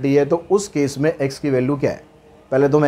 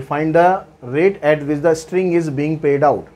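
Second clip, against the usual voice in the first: very slow, word by word, for students to copy; dictating the question to students, slow and even; slow dictation read; much slower than usual. Shown as a demonstration. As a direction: read it out so the class can write it down. Reads the question slowly.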